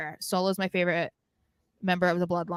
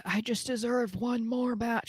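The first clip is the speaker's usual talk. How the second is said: mocking Christian; 7 dB quieter than usual. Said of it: "What the hell he says it?".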